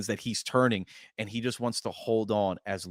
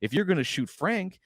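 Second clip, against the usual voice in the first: aggressive; 4 semitones higher than usual. Retold or imitated. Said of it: "she gets aggressive".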